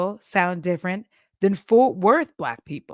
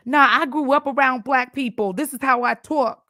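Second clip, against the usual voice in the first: a higher, cocky mock voice defending a put-on accent; mocking a poser; 6 semitones higher, 4 dB louder than usual. Mimicking people who claim they grew up around Black people, a higher and smug delivery. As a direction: lightly send up a defensive poser. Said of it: "catch the black scent".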